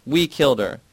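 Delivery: high, loud anguished cry; mother hitting her daughter shrieks, high and loud. A narrator's reading. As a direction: scream the confession out. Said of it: "Myrna shrieks".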